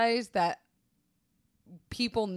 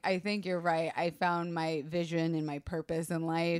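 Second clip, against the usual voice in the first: calm mature voice; 4 semitones lower, 4 dB quieter than usual. Retold or imitated. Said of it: "now my voice is like".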